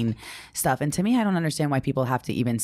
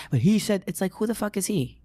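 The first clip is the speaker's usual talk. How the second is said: lightly imitated whiny protest, higher pitch; mock crying; 7 semitones higher than usual. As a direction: complain like a pretend crybaby, raised voice. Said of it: "crying and being like".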